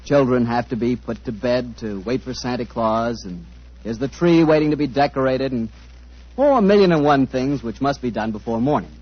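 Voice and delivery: put-on smooth old-time radio announcer read. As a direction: sell it like a forties sponsor spot. Announcer reads sponsor copy.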